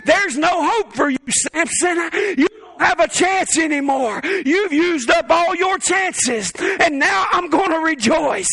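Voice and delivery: slow, gloating accuser rising to a shout; taunting enemy. Acted. The enemy gloating over fallen Samson, slow then shouting. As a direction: lean into the devil's mocking taunt. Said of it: "the enemy ever spoke to you that way".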